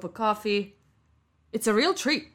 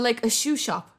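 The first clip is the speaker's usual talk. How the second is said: ordinary talk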